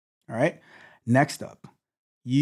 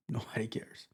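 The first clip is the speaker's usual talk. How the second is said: laughing it off; 14 dB quieter than usual. Real, not acted. Laughs, then dismisses.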